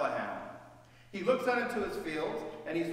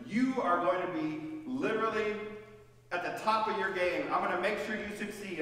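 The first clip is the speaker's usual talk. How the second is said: generous command. Acted. Boaz generously instructing Ruth.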